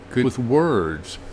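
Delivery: very slow, alien-sounding Martian voice. Pretend. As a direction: drag the words out like a Martian. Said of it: "they must be hearing my Martian voice".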